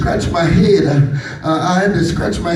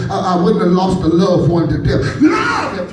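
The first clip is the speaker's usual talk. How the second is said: rising preacher shout. Acted. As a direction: cry out Lord at the peak. Preacher's list climbs to a cry.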